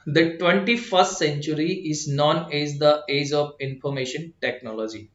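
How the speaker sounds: very slow, careful read-aloud; reading demo. Shown as a demonstration. Teacher showing students how to read the passage, very slow and clear. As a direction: read each word out deliberately like a model answer. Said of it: "कैसे read करना है, देखिए".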